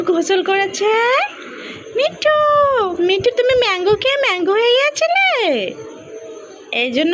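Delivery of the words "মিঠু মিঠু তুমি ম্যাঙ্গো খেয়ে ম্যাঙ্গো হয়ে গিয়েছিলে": pet talk. Real, not acted. Owner cooing to her parrot Mithu in high baby talk.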